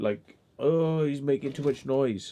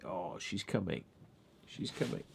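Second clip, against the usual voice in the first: excited whisper; 5 semitones lower, 15 dB quieter than usual. Real, not acted. Dog arriving.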